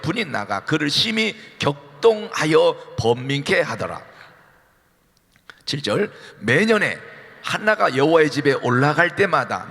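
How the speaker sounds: slow, measured reading of the verses aloud; scripture reading. Acted. Pastor leading the congregation's reading, slow and measured. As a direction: read the Bible text together, deliberately.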